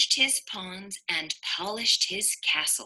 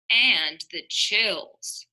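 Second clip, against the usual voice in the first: slow, stuffy sick delivery; sniffly sick voice; 2 semitones higher, 5 dB louder, slower than usual. Acted. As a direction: sound miserable with a cold. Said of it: "awoke with the sniffles".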